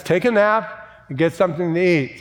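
voice of God. Retold or imitated. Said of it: "God says".

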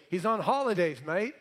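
light imitation Australian accent. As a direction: say it like an Aussie mate. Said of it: "My Aussie friends down under would say".

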